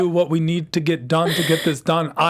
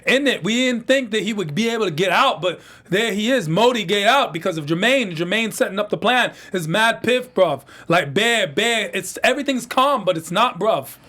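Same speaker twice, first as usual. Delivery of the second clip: mock London roadman accent. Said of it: "he's gonna talk like that the entire show".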